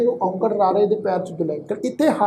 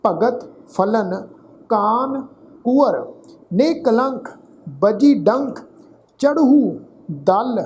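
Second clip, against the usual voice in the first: slow, measured Gurbani recitation; scripture recitation; much slower than usual. Acted. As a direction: recite each phrase deliberately, with pauses and drawn-out vowels. Recites scripture between explanations.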